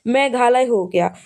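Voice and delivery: मेघालय said slowly as two separate pieces; slow down and spell out the pun in मेघालय; split-word mnemonic. Shown as a demonstration. Teacher answering how to remember it, मेघालय slowly split. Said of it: "किस प्रकार से करना है आपको?".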